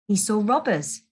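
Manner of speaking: ordinary delivery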